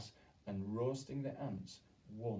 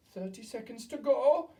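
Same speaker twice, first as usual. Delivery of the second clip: high, loud witch cry; 13 semitones higher, 10 dB louder than usual. A narrator's reading. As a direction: call the time out to the hall.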